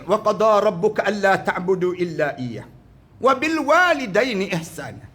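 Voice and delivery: measured Arabic recitation; Quran recitation. Acted. Preacher recites the verse to the congregation, intoned.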